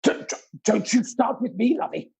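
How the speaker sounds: a light mock of Kim Woodburn's scolding; Kim Woodburn impression. Impression requested on a quiz show, mild scolding. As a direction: lightly play the bossy cleaner. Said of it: "It's like Kim Woodburn was in the building".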